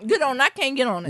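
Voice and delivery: talking around ice; ice in mouth. Real, not acted. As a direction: ice in mouth, words muffled. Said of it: "I got ice in my mouth".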